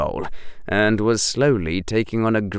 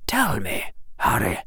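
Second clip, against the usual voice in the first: put-on a softer, hushed old wizard; old headmaster voice; 4 dB quieter than usual. Headmaster asking Harry, softly hushed. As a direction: lean in and ask quietly.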